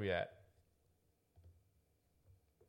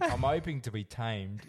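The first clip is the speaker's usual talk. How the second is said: slow, slightly louder, half-voiced; mock Nathan; 2 semitones higher, 5 dB louder than usual. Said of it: "No, I fucked it up".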